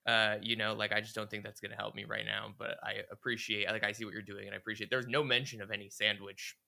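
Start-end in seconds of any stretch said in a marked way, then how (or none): 0.9-4.9 softly appreciative brush-off; very kind. Retold or imitated. Zoe declining help she doesn't want, kind and soft. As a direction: decline gently, in a lowered volume. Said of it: "she was very kind about it".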